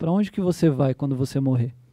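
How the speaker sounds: put-on solemn, calm voice. Retelling a question one man asked another, retelling a solemn, calm question.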